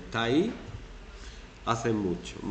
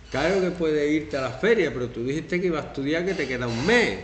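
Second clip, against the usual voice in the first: guilt-tripping parent; 4 semitones higher, 4 dB louder than usual. Shown as a demonstration.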